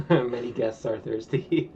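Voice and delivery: slow, laughing announcer read; game notification voice; customer service voice. Pretend. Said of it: "customer service voice".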